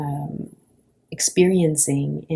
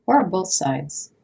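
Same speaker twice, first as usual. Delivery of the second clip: calm, unhurried guidance with long pauses; guided body scan. Acted. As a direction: guide a lying listener gently through the body, pausing between phrases.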